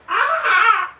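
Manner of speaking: high screeching seagull cry; loud shrill bird squawk; seagull impression. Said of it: "That was the worst impression of a seagull".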